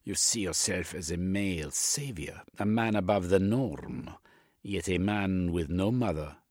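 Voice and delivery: lightly voiced, insistent analyst; Jung the analyst. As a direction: press the diagnosis on the patient.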